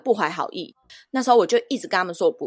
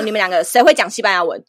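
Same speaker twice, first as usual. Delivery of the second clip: loud, accusing question, imitated; retold angry demand; 7 dB louder than usual. Driver at the door confronting Moni and her mother, loud and angry. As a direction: bark the question at the two women, mock fury. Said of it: "劈头指着他们就骂".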